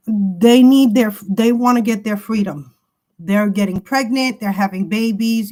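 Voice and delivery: loud and heated, words pushed out hard; loud heated warning. Real, not acted. Tarot reader warning her viewers, loud and heated. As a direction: slam each word at them like an alarm.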